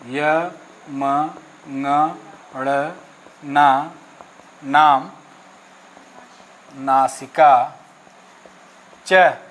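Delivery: य, म, ङ, ण said low and slow to show the nasal sound; nasal letters demonstrated. Shown as a demonstration. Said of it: "इन वर्णों को विशेष ध्यान दीजिएगा".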